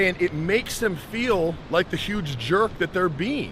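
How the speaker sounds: ordinary delivery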